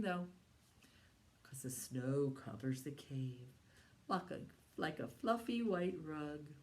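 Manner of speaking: slow, sing-song finger-rhyme voice; rhyme recital. Acted. Teacher leading a bear finger rhyme for children. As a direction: recite the rhyme for little ones.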